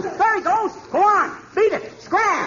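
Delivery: frantic chase calls; excited shouting. Acted. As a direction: shoo the owl out in a flurry. Chasing owl out.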